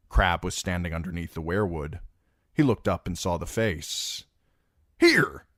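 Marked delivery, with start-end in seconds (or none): 5.0-5.5 high, loud shout to Brienne; calling out. A narrator's reading. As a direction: call her over urgently. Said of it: "he called to Brienne".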